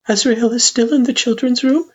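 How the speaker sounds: very high, careful mother-figure voice; parent figure. A narrator's reading. Parent checks with partner where son is, carefully. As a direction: ask in a high, contained voice.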